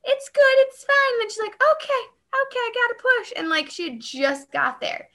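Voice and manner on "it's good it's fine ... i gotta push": high, light voice of a woman in labor; lightly voiced laboring mom; mock patient. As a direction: play the overconfident mom turning urgent. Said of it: "She was like".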